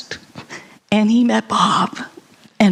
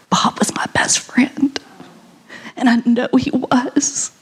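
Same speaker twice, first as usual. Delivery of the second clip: tearful near-whisper, barely voiced; choked-up whisper thanking Bob at his memorial; emotional whisper. Real, not acted. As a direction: hold back tears and let the voice fall to a whisper. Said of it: "excuse me if I get emotional".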